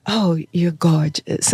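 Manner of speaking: slow, lightly imitated British accent; British woman. British agency woman admiring the new model, slow imitated British accent. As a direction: draw out the compliment in mock British. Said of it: "there was this British woman".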